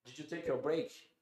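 slow English question from the boss; a slow English question, boss imitated. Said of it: "o chefe falava assim".

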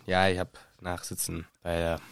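low, subdued mumble of admission; small, guilty voice; sheepish confession. Acted. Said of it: "Harry muss beichten".

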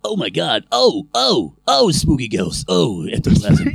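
lightly hammed-up climax moans; mild mock climax moans; mock moaning. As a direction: moan it like a cartoon dad caught out. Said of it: "I sound like Duff Man".

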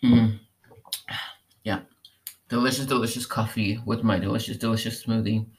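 talking right after a sip; while sipping a drink. Real, not acted. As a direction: mouth full of coffee. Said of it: "Hold on, let me take a sip".

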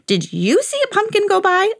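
high, put-on old man bawling out. A narrator's reading. Old man calls to the varmint, high bawl. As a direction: call out in a high old man's voice. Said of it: "bawled out".

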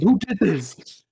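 high, loud, slow who did this; parents demanding. Retold or imitated. Imitating parents after the fire, loud demanding. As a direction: demand an answer from the kids. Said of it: "And they're like".

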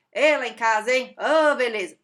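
loud leering whistle-call; crude catcall. Retold or imitated. Imitating a crude coworker catcalling a colleague, loud. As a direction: call it out like a guy on the street. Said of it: "E você fala assim".

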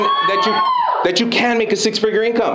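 high shouted hype; hyped shout. Real, not acted. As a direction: pump up the crowd. Hyping the crowd.

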